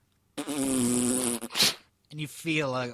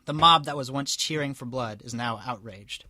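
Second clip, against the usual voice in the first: steady storybook reading voice; story narration; 4 dB louder than usual. A narrator's reading. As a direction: read it out like a tale. Reads story aloud.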